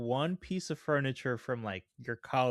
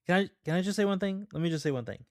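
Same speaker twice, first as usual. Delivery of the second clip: higher, louder, fast pushy demand; acted heated outburst; 6 semitones higher, 4 dB louder, much faster than usual. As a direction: burst in like an angry friend mid-argument. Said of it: "good acting".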